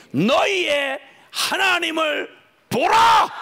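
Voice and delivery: slow, loud, high shout of 보라. Shown as a demonstration. Pastor showing the congregation how to cry out, slow shout. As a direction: cry out 하나님을 보라 slowly at full voice. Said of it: "이렇게 외치는 겁니다".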